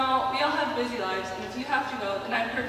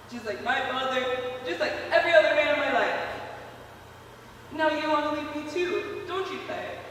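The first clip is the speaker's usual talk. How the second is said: raw despairing confession; 5 semitones higher than usual. Acted. Confession after breakdown.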